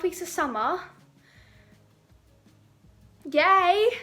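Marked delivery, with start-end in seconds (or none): 3.3-3.9 loud, high yay; real joyful yay; excited cheer. Real, not acted. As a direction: cheer like school's out. Celebrating end of exams.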